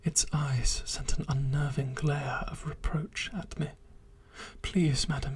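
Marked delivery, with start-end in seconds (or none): 4.6-5.3 lightly voiced monster begging in a whisper; pleading creature.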